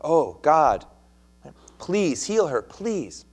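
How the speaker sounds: a rising, earnest plea to God; pleading Moses. Retold or imitated. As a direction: beg God to heal her, the last please lifted high. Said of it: "pleading for her".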